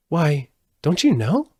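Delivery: high, mild surprise. A narrator's reading. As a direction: sound a little surprised. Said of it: "she returned in surprise".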